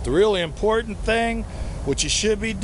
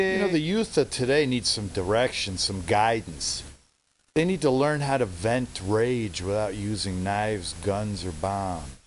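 much lower, softer confiding; sly aside; 10 semitones lower, 6 dB quieter than usual. Acted. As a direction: lean in and let them in on it.

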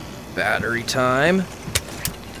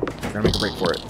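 urgent, rising panic while fleeing; being chased; 8 semitones higher, faster than usual. Real, not acted. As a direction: hurry and panic, climbing higher. Fleeing the neighbor.

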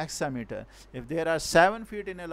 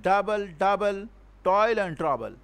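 "Double, double, toil and trouble" with each first syllable stressed; chant-like strong-weak beat on "Double, double, toil and trouble"; trochaic verse rhythm; 2 semitones higher than usual. Shown as a demonstration. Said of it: "an example of this trochee".

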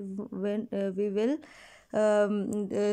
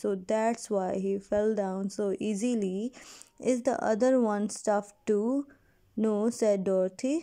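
measured classroom read-aloud; story reading. Acted. Teacher reads story dialogue.

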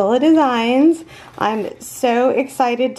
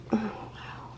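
hushed, breath-only amazement; awed whisper; 15 dB quieter than usual. Real, not acted. Admiring the colors of a gift, awed whisper. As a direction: barely whisper it in wonder.

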